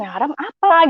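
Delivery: puzzled. Retold or imitated. Child puzzled by parents' food warning, baffled. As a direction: imitate a confused kid asking. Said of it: "Saya bingung".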